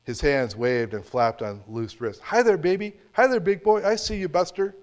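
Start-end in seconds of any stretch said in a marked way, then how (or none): 2.2-4.8 put-on high, loud, sing-song greeting to a baby; drunk old man cooing. Old drunk calling to a baby across a restaurant, high cooing. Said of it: "he said".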